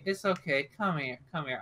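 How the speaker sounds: soft, mildly soothing reassurance; a touch of comfort, softly spoken; somewhat comforting. Acted. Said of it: "trying to be somewhat comforting".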